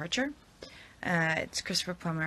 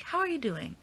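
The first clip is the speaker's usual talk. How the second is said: sassy greeting voice; 8 semitones higher than usual. Retold or imitated. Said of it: "when I read, like".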